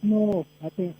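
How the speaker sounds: like talking through a wall; muffled, far from the mic. Real, not acted. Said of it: "you sound muffled".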